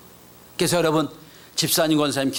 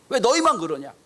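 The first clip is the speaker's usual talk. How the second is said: high-pitched mock protest; lightly angry, raised-pitch challenge; acted indignation; 7 semitones higher than usual. Ten disciples protest to the favoured two, mildly angry. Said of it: "열 제자가 막 화를 내는 거예요".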